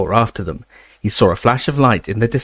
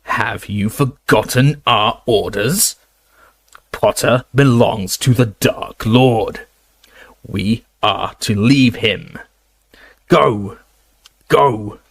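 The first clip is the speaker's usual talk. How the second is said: shouting orders; slower than usual. Acted. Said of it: "Snape was shouting".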